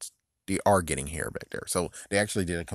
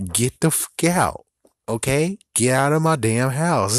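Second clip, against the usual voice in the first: mock angry yell; 5 semitones higher, 5 dB louder than usual. Old man shouts kids out.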